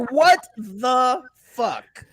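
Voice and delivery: drawn out slowly through real laughter; laughing disbelief. Real, not acted. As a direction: laugh it out, half crying with amusement. Laughing disbelief at Jeter news.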